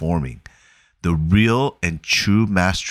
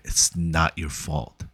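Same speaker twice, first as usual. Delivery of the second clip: gentle reassurance; 5 dB quieter, slower than usual. Retold or imitated. Therapist repeating comfort to Will.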